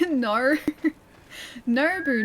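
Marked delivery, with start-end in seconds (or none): 1.7-2.2 "Nobu" with a clear B in the middle. Shown as a demonstration. Streamer correcting a name, "Nobu" with a B. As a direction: stress the B of "Nobu" against an R. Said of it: "not Noru".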